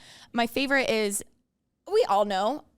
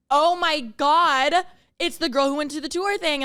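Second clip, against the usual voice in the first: louder, slow dawning surprise; sudden realization; 6 semitones higher, 5 dB louder than usual. Retold or imitated. Finding the fan's Venmo in her photos, slow surprised exclamation. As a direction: stretch out the discovery, half-amazed.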